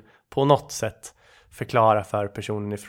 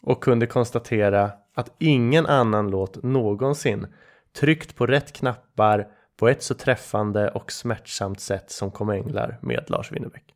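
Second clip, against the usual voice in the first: theatrical recitation. Acted. Podcaster closing a pitch for a love song, theatrical recitation. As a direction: round off the speech with staged gravity. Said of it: "det är dålig teater".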